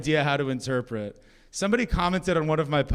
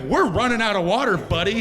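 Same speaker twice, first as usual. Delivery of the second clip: mild mock panic, pitched up at first; retold panic; 3 semitones higher than usual. Debater grasping for an answer to climate denier, mildly panicked. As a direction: blurt it with a touch of comic alarm. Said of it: "I panicked".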